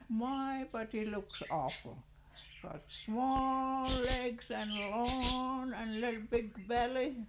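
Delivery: high, loud, slowed mock of the husband's looks; a wife jeering at her dancing husband, high and loud.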